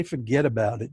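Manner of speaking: a hint of a New York accent. Shown as a demonstration. Joking with webinar listeners about penalties, light New York accent. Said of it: "this is my New York accent".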